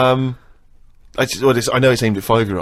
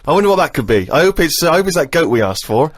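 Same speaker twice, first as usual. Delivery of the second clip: mock wide-eyed wonder; 8 semitones higher, 4 dB louder than usual. Mocking the Christmas goat gift with fake surprise. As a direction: ham up a child's delight at an obvious present.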